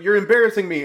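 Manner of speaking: high, loud retold rebuke; mock angry yell. The drunk son yelling at his mother at dinner, in a loud mock rebuke. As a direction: snap at them like the drunk son. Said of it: "he's like".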